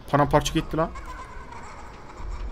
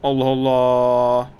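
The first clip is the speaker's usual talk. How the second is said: exasperated sigh; 6 semitones lower, much slower than usual. Real, not acted. Can't find where to throw.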